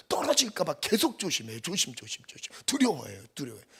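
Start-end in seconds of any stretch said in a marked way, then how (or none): 2.6-3.3 두려워해요 said out firmly at full voice; the firm take of 두려워해요; louder take. Shown as a demonstration. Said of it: "repeated softer". 3.3-3.7 두려워해요 dropped to a soft falling murmur; the quiet take of 두려워해요; softer take. Shown as a demonstration. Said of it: "repeated softer".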